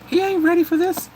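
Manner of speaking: high pitched worried exclaim; alarmed. Real, not acted. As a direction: sound it out in disbelief. Worried exclaim about young king.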